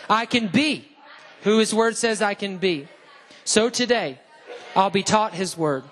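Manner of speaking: punchy call-and-response creed, phrase by phrase; emphatic declaration. Real, not acted. Preacher leading the congregation's Bible confession, emphatic. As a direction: declare it like you mean it, with pauses. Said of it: "say it like you mean it".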